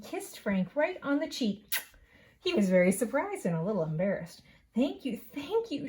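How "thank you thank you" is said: higher, light bird-like thanks; chirping. A narrator's reading. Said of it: "she chirped".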